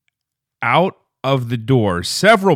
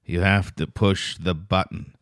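put-on vacant troll kid; 4 semitones lower, 4 dB quieter than usual. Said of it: "this little troll kid was".

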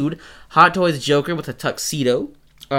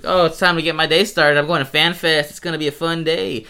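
higher, upbeat retold excitement; mock cheerful anticipation; 4 semitones higher than usual. Host retells heading to Fan Fest, mock cheerful. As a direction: play up innocent morning cheer.

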